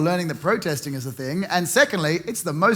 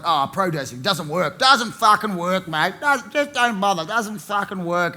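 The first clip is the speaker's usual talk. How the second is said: grumpy Aussie bloke. Retold or imitated.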